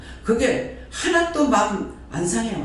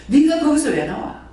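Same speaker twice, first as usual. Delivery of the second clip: mock indignant question; 4 semitones higher, 4 dB louder than usual. Punchline rebuking self-claiming believers.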